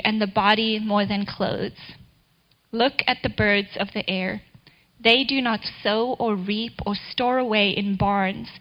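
measured, even Bible reading; scripture reading. Acted. Reading Matthew six to listeners, calm reverent reading.

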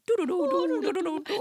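high, loud doo-doo melody; sing-songy mock accent. Mocking how a Welsh accent was described, sing-song. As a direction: trill nonsense syllables like a caricatured lilting accent. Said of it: "It's sing-songy".

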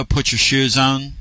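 slow Tennessee drawl, imitated; lightly drawled country accent; wife's country accent. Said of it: "first time I heard her say that".

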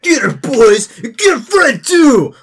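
high, full-force yell; shouted order. Acted. Drunken man setting his men on the woman, shouting. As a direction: holler it to rally the gang. Gang leader orders an attack.

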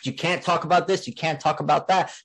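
scolding voice, mildly mocked; mocking critics. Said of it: "the more they said".

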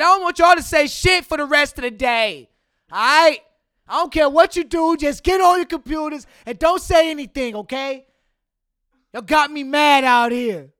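loud, high scolding of a class; re-enacted angry teacher's yell. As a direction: lay down the law at full volume. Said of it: "I definitely had some bass in my voice".

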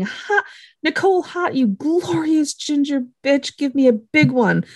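high-pitched imitation of a delighted greeting; excited greeting. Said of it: "her whole face lights up".

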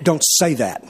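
low, stern command. Retold or imitated. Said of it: "Very stern".

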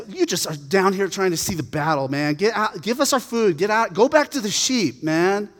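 lightly acted big-brother irritation; annoyed older brother. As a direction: send a kid brother away, exasperated. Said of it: "And Eliab's".

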